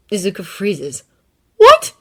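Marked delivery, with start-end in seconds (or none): 1.6-1.9 much higher, louder startled cry; shocked. Acted. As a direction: gasp it out. Izuku freezes, shocked.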